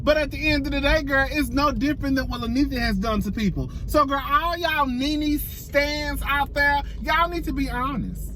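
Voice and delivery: talking around a dental retainer; slightly slurred, retainer in; retainer in mouth. Real, not acted. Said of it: "That's why I'm sounding like that".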